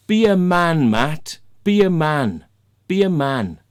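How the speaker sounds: loud, punched-out imitation of a challenge; confrontational quote. Man squaring up to Matt in his face, loud mock challenge. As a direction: imitate someone squaring up, loudly. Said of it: "he's fucking looking at me and he goes".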